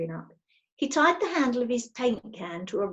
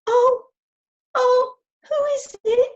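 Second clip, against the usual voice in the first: high, loud startled cry; startled and scared out of her wits; Connie, startled on the ladder, cries out high and loud; frightened cry; 14 semitones higher, 8 dB louder than usual. Acted. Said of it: "cried Connie".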